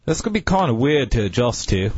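wobbly amateur British accent; lightly put-on British accent. Shown as a demonstration. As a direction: attempt a British accent, unconvincingly. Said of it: "speak in a British accent".

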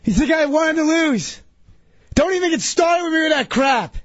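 real exasperated yell; irritated yelling. Real, not acted. Sore loser yelling back at being asked why he lost. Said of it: "Why are you yelling right now?".

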